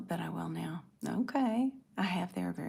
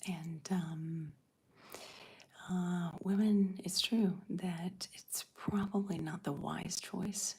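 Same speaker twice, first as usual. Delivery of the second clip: ASMR whisper. Real, not acted. Whispering to her livestream viewers about motherhood. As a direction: hush it like an ASMR video.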